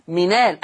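منال pronounced minal, no glottal stop; منال بلا همزة. Shown as a demonstration. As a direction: say منال with the hamza dropped and its vowel carried onto the n. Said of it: "لما بنطق منال حد يسمع مني الهمزة". (منال بنقل حركة الهمزة إلى النون)

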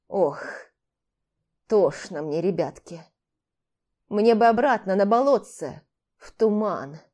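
lightly voiced old man wailing; a hint of a whining old man; old man lamenting. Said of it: "запричитал он постарчески".

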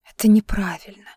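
breathy whispered confession; barely voiced, keep it secret. A narrator's reading. Anya whispers to Vlad on the phone, whispered.

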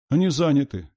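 put-on high, small child's voice; high, childish reply; little girl. A narrator's reading. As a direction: answer like a small sister. Small girl answering her sister.

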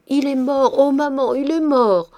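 put-on terrified child crying out to her mother; panicked cry. A narrator's reading. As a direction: scream it running away in fright. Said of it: "prise d'une peur folle".

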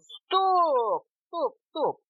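high-pitched clamour; fussing little passengers; noisy protest. A narrator's reading. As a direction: pipe up in objection, pitched high. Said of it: "зашумели гости".

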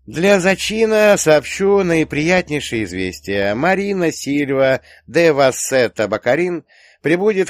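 high, loud, slow proclamation; grand announcement. Acted. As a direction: announce it with relish. Mock-grand announcement to the youngsters. (торжественное объявление, громко и нараспев)

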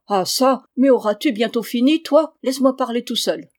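exasperated husband snapping at his wife; irritated outburst. Acted. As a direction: cut her off, fed up.

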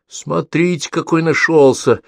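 high, cheeky little brother. A narrator's reading. Pavlik cheekily talks back to his brother, high. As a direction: sass him back like a brat. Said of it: "дерзко ответил Павлик".

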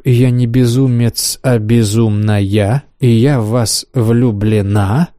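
drawn out with rising delight; savoring the words. Acted. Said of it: "Дойдя до слов". (медленно, смакуя каждое слово)

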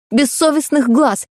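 plain reading voice

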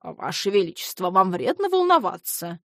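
gentle reproach. Acted. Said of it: "с мягкой укоризной произнёс целитель".

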